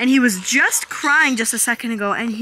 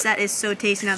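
ordinary delivery

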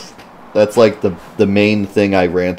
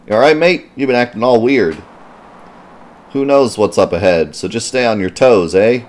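mock British; 3 semitones higher than usual. Voicing character in British accent.

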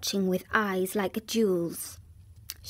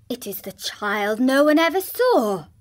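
exclaimed; 2 semitones higher, 4 dB louder than usual. Acted. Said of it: "exclaimed the man".

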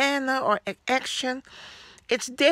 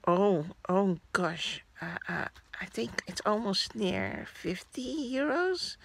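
slow "oh gosh", then a whispered total; dismayed whisper; 6 dB quieter than usual. Retold or imitated. Telling viewers what she muttered at the register, in a whisper. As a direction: whisper the price as if it hurts. Shocked self-talk about the price.

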